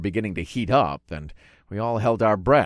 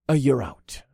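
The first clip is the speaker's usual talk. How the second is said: mildly casual, unbothered statement; calm tone; 4 semitones higher than usual. A narrator's reading. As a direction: say it calmly after an easy win. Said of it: "I said in a calm tone".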